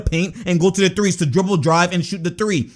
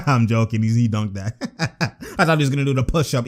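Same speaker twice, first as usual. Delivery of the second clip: laughing; 7 semitones lower than usual. Real, not acted. Laughing after joking about player.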